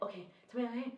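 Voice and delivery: imitating hurried, high-energy talk; speaking fast. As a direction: rush the question out. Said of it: "now I'm speaking fast".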